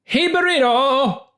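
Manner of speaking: put-on a botched Native American accent that drifts toward his own voice; bad Native American accent. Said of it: "That was Native American".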